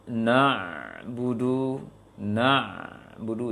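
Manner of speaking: "na'budu" slow, ain with a little flow; correct recitation. Shown as a demonstration. Teacher showing the right way, slow. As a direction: let "na'budu" ease through the ain, slow. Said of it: "Seharusnya na".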